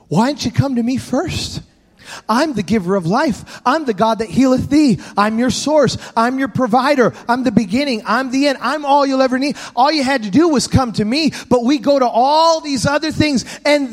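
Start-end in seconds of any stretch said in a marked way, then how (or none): 0.1-11.3 a hint of God speaking gently; God's voice. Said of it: "it's almost as if God says".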